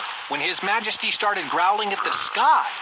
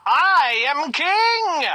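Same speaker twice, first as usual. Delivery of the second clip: angry king; 5 semitones higher, 4 dB louder than usual. Acted. King scolds page boy.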